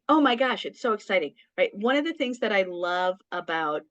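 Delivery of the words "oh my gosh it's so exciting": lightly excited, lifted at the start; mild demonstration of excitement. Shown as a demonstration. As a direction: show a touch of gushing excitement. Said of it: "that tone of excitement".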